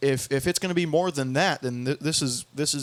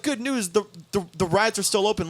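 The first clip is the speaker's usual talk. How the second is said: happy DJ; 5 semitones higher, faster than usual. Retold or imitated. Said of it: "happy guy D J".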